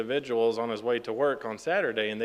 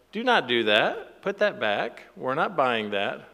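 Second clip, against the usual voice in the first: mock parental scolding. Parent to toddler at the checkout, mock scolding. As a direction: scold a toddler with exaggerated rises and falls.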